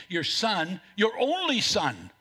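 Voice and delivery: "Your son, your only son" with "only" lifted and leaned on; emphasis on son. Shown as a demonstration. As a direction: press the words "your only son" one by one. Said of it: "notice that he emphasizes".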